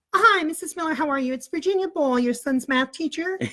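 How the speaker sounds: N=Virginia Ball/character; teacher voice. Retold or imitated. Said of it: "act like Missus Ball".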